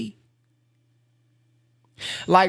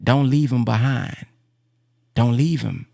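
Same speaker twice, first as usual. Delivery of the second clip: gentle inner voice; 6 semitones lower than usual. Retold or imitated. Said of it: "or the Redeemer says".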